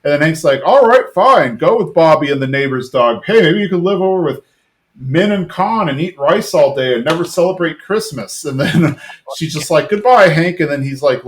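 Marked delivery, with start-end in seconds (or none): 0.7-8.4 high-pitched imitation of a huffy husband; mock spiteful retort. Acted spiteful marital quarrel. 9.9-10.6 higher, louder imitation of a huffy wife; mock angry goodbye. Wife storms off in retold quarrel.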